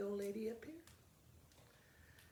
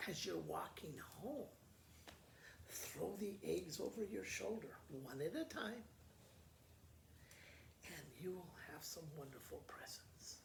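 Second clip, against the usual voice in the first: secretive whisper; 7 dB quieter than usual. Acted. Old lady tells a secret.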